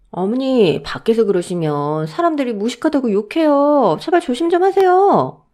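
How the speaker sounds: pleading reproach, climbing high at the end; fed-up daughter-in-law; exasperated scolding. Acted. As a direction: nag an elder with rising exasperation. Daughter-in-law scolds mother-in-law in acted scene.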